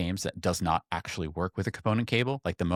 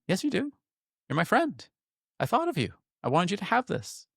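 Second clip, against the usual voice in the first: very high, earnest retold reassurance; heartfelt insistence; 12 semitones higher than usual. Giving a friend his favorite game, warmly insistent. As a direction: insist kindly, pitched far up.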